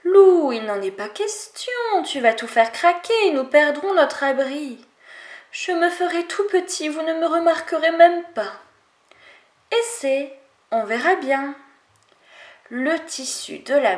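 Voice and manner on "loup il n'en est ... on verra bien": higher, firm refusal then grudging yes; a lightly voiced scolding; animals arguing with wolf.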